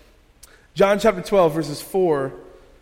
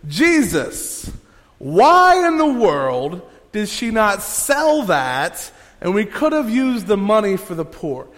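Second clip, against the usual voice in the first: raised and louder, slowed on why in the world; indignant Judas; 4 semitones higher, 4 dB louder than usual. Retold or imitated. Judas protesting to Jesus about the wasted money, indignant and raised. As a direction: Judas objecting to Jesus, half-acted. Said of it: "He says".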